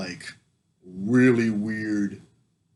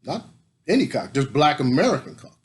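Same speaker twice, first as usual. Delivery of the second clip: mock emphatic; 4 semitones higher, 6 dB louder than usual. Punchline repeat.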